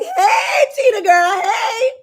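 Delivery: perimenopause calling out. Acted. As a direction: yell up at Tina like a pest that won't leave. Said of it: "She started rearing her little head".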